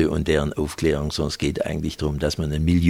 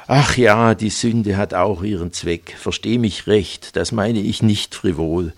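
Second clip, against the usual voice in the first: lightly voiced fervent preacher, rising higher on the pleas; a hint of a pleading seducer of the cloth; pious preacher; 4 semitones higher than usual. Preacher sweet-talking Silke on the sofa, lightly voiced fervent pleading.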